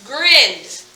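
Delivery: Grinned as one syllable with a final D; one-syllable pronunciation. Shown as a demonstration. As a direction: say Grinned with a single vowel sound. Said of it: "One, therefore one syllable".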